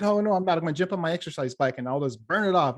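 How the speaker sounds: mock protest. Client protesting to therapist about the chocolate, mock insistent. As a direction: imitate a client hastily protesting.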